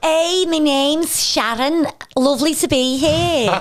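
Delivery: gushing Scouse guest introducing herself; Sharon. Acted. Co-host plays a guest from Liverpool, hammed-up Scouse. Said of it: "somebody here from Liverpool".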